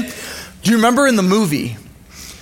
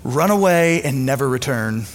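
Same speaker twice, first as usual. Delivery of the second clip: low, cold command; a lightly voiced villain uncle; menacing villain; 5 semitones lower than usual. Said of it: "the enemy says to him".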